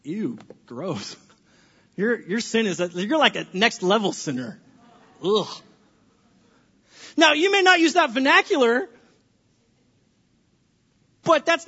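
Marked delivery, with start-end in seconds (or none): 0.0-5.5 small-group member sneering, mock disgust. Shown as a demonstration. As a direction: sneer at a sinner. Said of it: "Evil things that we say in small groups".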